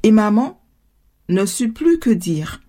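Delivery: ordinary delivery, nothing marked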